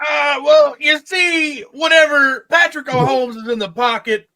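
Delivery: high, loud hammed-up commentator voice; mock a TV color commentator, shouting high; Chris Collinsworth impression. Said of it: "Stupid Chris Collinsworth. I can't do his accent".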